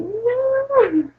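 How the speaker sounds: a high, bewildered no; puzzled no. Retold or imitated. Patient answering a nurse she doesn't recognise, with a high, puzzled no. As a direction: squeak out a lost, confused no. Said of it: "E eu falava assim".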